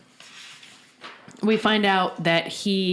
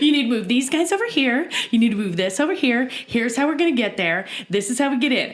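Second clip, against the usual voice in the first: lightly voiced commanding general; George Patton; 4 semitones higher, faster than usual. Granoli laying out the jailbreak plan, mock commanding. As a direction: hand out orders, a bit higher. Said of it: "gets over there like George Patton".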